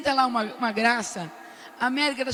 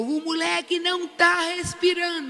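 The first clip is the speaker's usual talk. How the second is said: mild mock yell, pitched up; retold yell; 4 semitones higher than usual. Grandmother to the staff, a mild retold yell. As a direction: call out the alarm, half-raised. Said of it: "Eu gritei de novo".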